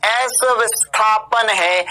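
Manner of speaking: slow, insistent stress on "विस्थापन"; emphatic repetition. Real, not acted. Teacher repeating a key point to students, emphatic. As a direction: draw out "विस्थापन" firmly to drive it home. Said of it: "गला फाड़ फाड़ के बोल रहा हूँ".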